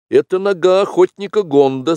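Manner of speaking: put-on high, loud, excited boy's voice; eager young Mowgli. Mowgli identifying the hunter's foot, eager and high. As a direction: pipe up like a keen young tracker.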